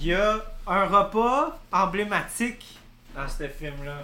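shouting from across the room; far from mic. Real, not acted. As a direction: call out from a distance. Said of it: "je vais crier parce qu'il faut que je, je m'éloigne du micro".

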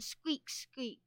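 high mock scavenger squeaks; playful little-creature squeaking; annoying squeaks. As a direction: squeak like a tiny pest. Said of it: "other annoying scavenger noises".

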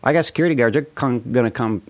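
loud, high furious threat; angry threat. Real, not acted. Vlogger threatening a trespasser, loud and furious, high.

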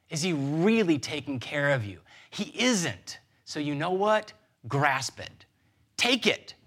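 a sly tempter rising to a push; serpent's tempting voice. Acted. Serpent urging Eve to grab control of her life, rising tempter's call. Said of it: "as if to say".

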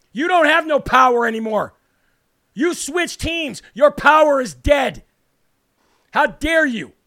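loud, slow angry verdict; heated. Real, not acted. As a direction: spit it out slowly with rage. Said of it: "I just got heated".

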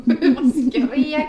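loud, high and breaking into laughter; laughing retelling. Real, not acted. Bather recalls screaming by the windy sea, laughing loudly. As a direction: crack up while telling it.

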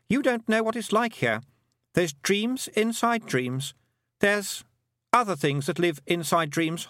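high, lightly voiced frightened boy; Roland. A narrator's reading. Roland warning Tiffany about dreams, high and uneasy.

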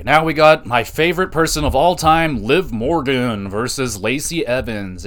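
mock enthusiasm for a hated wrestler; sarcastic. Real, not acted. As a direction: fake delight, dripping sarcasm. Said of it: "I'm being extremely sarcastic".

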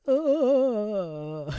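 a short, mock sobbing "Oh"; retold sob. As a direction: sigh it out like you're half crying over a book. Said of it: "sobbing over in the corner".

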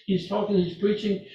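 high-pitched, urgent shushing; scolding crowd. Retold or imitated. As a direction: tell off a noisy nuisance. Crowd scolds the shouting blind man.

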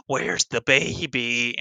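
slow, drawn-out killer's question; imitated disturbed killer. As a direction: stretch it out like a phone creep. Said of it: "that really bad happens".

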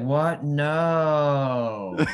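high, loud startled no; mock surprised denial. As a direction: act caught out and deny it. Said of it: "I'll just have to be like".

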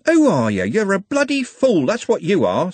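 high, loud, furious tirade; screaming. A narrator's reading. Trev turning on the dim attacker, screaming. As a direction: scream it right in his face. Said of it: "screamed Trev".

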